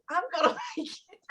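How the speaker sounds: high-pitched inner voice with a laugh; hopeful thought squeaked out high; mid-fall hope. Retold or imitated. Retelling her thought while airborne, hopeful and high.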